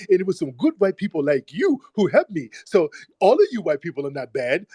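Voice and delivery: mocking the caller. Host acting out caller's story to white people, mocking imitation. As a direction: mimic him lightly, currying favour with white people. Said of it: "that's a story that you say around white people".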